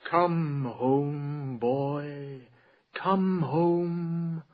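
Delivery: slow, lilting recital with long held words; poetry reading. Acted. Poet reciting verse to the salon audience, slow and lilting. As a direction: savour each line like a bard. Poet reads his poem aloud.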